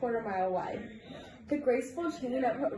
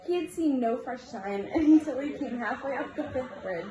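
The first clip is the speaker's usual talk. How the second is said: giggling. Real, not acted. Reader giggles through a story.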